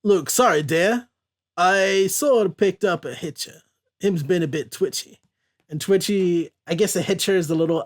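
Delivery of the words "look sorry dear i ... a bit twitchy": put-on terrible Cajun accent. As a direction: apologize in careful, clumsy fake Cajun. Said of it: "that was a terrible Cajun accent".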